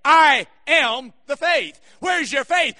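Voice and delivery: preacher voicing Jesus, forceful; forceful question. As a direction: drive the question home. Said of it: "He was saying to them".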